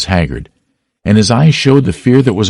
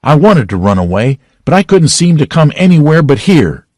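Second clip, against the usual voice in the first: sobbing lament; 8 semitones higher, 4 dB louder than usual. A narrator's reading. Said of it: "he fell to sobbing again".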